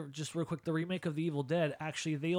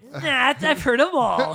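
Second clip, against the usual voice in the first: tag; 8 semitones higher, 9 dB louder, slower than usual. Pretend. Joking dismissal after laughing.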